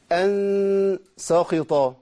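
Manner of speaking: ساخطا with a heavy, emphatic kha; wrong tafkhim. Shown as a demonstration. Teacher showing the second mistake, drawn out slowly. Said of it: "الخطأ الثاني".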